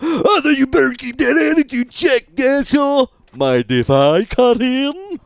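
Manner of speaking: high, cocky tough-guy voice; swaggering gangster taunt; tough thug voice. Pretend. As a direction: sneer it like a street thug. Voices game thug character.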